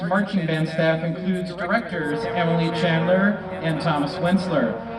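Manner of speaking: announcer voice. Pretend. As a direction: announce it like a competition. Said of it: "I'll do my best announcer voice".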